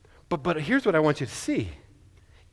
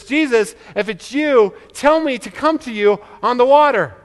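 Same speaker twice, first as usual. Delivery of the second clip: Peter asking; 5 semitones higher, 4 dB louder than usual. Retold or imitated. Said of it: "he just says".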